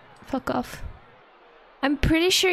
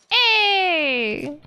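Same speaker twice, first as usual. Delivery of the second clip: high, loud bark of hey; sharp shout; 6 semitones higher, 4 dB louder than usual. Real, not acted. Gamer yells at the bandito in her hand. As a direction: call out sharply.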